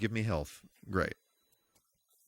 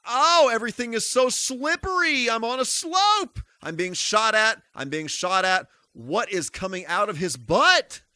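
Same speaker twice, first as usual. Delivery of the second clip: much higher panicky running commentary; frantic panic; 10 semitones higher than usual. Real, not acted. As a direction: yelp it out while scrambling. Sliding and shot at in game.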